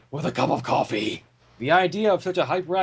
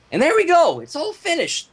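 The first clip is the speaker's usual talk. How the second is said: lightly voiced Mister Cake; 10 semitones higher, 3 dB louder than usual. A narrator's reading. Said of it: "Mister Cake said".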